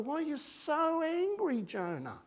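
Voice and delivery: high, lifted question that drops away; God asking gently. Pretend. God gently questions sulking Jonah, high then falling off. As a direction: ask it lightly from above.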